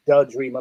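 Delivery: "the" said as "duh" in "the Dreamer"; "the Dreamer" pronounced "da Dreamer", Bronx-style; colloquial "the". Shown as a demonstration. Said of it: "like the Bronx".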